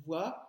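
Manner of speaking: Voiture split, then a long ture; "Voiture" with the U held long; stress on second syllable. Shown as a demonstration. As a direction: pause after voi and stretch ture in "Voiture". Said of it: "le son U se trouve dans la deuxième syllabe".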